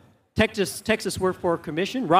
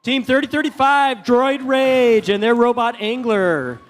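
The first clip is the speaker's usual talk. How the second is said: announcer call; 3 semitones higher than usual. Real, not acted. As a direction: hype the team like an arena announcer. Announcer introduces team name.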